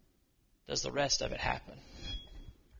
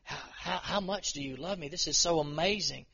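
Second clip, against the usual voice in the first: awed gratitude. Retold or imitated. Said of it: "His response was".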